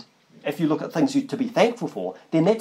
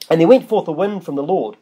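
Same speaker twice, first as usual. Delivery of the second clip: measured Bible reading; scripture reading. Acted. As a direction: read the verse out with weight. Reads scripture aloud.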